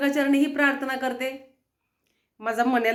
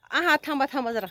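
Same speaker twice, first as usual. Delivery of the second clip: normal talking voice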